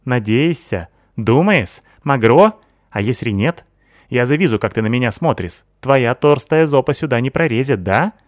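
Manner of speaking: put-on Sykil's accented voice. Sykil praising Natasha, lisping accented girl voice. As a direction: voice the Asian girl, lisping s as t-sounds.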